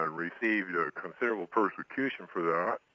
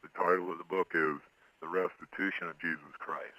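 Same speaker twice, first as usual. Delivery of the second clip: disguised voice. Real, not acted. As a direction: voice altered to hide identity. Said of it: "he is appearing here on this show with a disguised voice".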